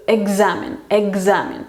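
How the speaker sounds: "examen" with x as voiced gz; voiced consonant. Shown as a demonstration. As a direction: say "examen" as egzamen. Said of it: "Va a ser como G".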